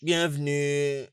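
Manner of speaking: high, long-drawn happy welcome; joyful welcome. Acted. Husband welcoming his wife back, joyful and drawn out. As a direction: stretch out the greeting with delight.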